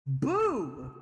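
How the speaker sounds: a sudden spooky BOO to scare; startling boo. Pretend. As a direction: jump out with a sharp boo. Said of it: "Did I scare you?".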